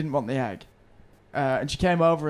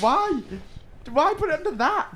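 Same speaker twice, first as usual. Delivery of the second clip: real rage; 10 semitones higher than usual. Real, not acted. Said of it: "that was, like, legitimate rage".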